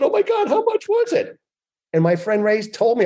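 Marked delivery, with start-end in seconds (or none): 0.0-1.4 high squealing mock eagerness; mock excitement. Asking his friend the price, high squealing mock eagerness. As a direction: squeal it like a giddy kid.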